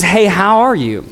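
quick, offhand hello in passing; a throwaway hey how are you; casual passing greeting. Retold or imitated. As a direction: toss it off like small talk. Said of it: "one of those ones where it's like".

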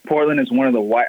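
talking around a sip of coffee; words cut short by a coffee sip; while sipping a drink. Real, not acted. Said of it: "I'm sorry, I'm drinking coffee".

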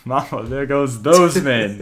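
slow, drawn-out commentator catchphrase; lightly imitated basketball commentator; Mark Jackson. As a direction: draw out the call like a TV analyst. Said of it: "I like Mark Jackson when he's like".

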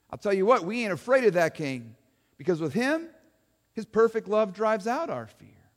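lightly voiced folksy eyewitness; a hint of a folksy townsman talking to an interviewer; Joe the witness. Eyewitness Joe tells the interviewer Joan about his king, lightly voiced folksy.

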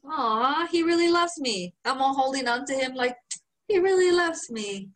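playfully imitating being smitten; mock swooning. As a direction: gush over being carried. Swooning over homie carrying him.

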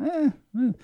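high little "eh" of distaste; disapproving grunts. Retold or imitated. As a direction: wince at a bad accent in small squeaks. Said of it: "not doing it well and going".

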